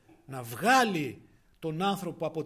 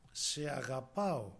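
tender voice of God; 4 semitones lower, slower than usual. Acted. Preacher voicing God's love to the congregation, slow and tender. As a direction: say it like a gentle promise of love.

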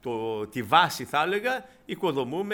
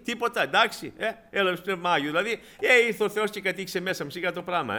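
higher, shrugging so-what voice; mock indifference; 5 semitones higher than usual. Preacher imitating an ungrateful believer shrugging off the gift. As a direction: wave it off like it's nothing.

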